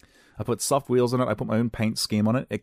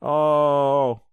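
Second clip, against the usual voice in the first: pained oh; 6 semitones higher, 6 dB louder than usual. Real, not acted. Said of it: "I just knocked my tooth".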